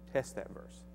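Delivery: whispered inner voice, soft and hushed. Retold or imitated. Voice in his mind repeating it, in a whisper. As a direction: breathe the words like a thought.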